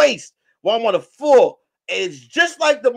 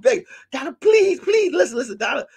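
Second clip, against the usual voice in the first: mock begging; 3 semitones higher than usual. Begging Donna, named as begging.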